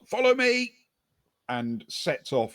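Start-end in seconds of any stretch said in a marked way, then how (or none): 0.1-0.7 high, loud rallying yell; raised voice pitched way up. Acted. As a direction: call out urgently for others to follow. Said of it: "and yells".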